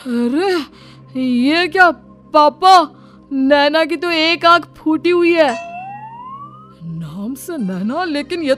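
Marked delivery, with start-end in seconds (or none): 1.2-5.5 stunned, raised-pitch outcry; aghast, voice lifted; shocked discovery. Acted. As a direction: blurt it out to papa in shock. Discovers the bride's one eye.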